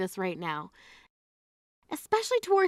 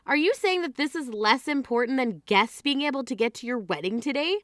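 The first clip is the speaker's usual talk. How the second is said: ordinary delivery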